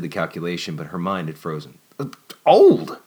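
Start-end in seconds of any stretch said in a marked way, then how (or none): 2.0-3.0 breathy gasped whisper; shocked whisper. A narrator's reading. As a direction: gasp the word in shock. Shocked at his age.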